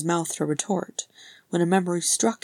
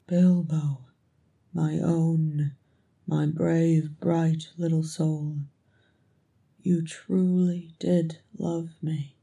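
tender reverence; slower than usual. Acted. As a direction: linger tenderly on each phrase. Thorin's tender, awed confession.

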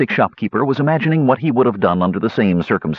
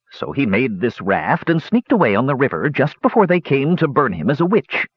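lightly voiced old dwarf, higher pitched; old dwarf hermit, storytelling; 4 semitones higher than usual. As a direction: spin the yarn as a rustic old hermit.

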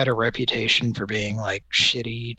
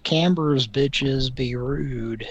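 slow read-out; much slower than usual. Retold or imitated. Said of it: "It said".

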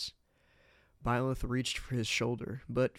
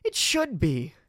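sharp, loud retort; louder, higher snap; snapped; 6 semitones higher, 8 dB louder, slower than usual. Acted. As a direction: bite the words off at him. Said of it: "she snapped".

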